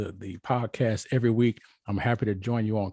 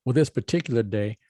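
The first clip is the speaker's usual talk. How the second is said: usual speaking voice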